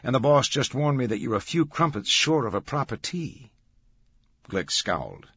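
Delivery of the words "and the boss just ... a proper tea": lightly voiced colleague, higher in pitch; Macri passing on bad news. Macri relays the boss's warning to Glick, reporting.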